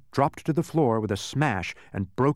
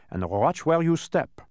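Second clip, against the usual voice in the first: higher, slow warning; instructing guide; 6 semitones higher, 4 dB louder than usual. A narrator's reading. Dodecahedron guiding visitors through the mine, slow instruction. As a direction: direct them with drawn-out care. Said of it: "instructed the dodecahedron".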